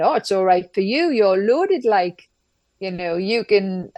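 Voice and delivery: light Geordie accent, lightly imitated; a hint of Geordie accent on the quote. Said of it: "I'll do this in a Geordie accent".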